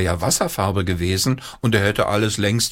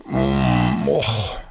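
sleepy groaning och; yawning groan; 6 semitones lower than usual. A narrator's reading. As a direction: groan it out with a yawn. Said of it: "machte er".

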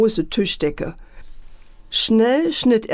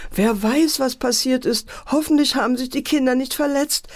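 worried lament; 5 semitones higher than usual. Acted. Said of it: "jammerte die Mutter".

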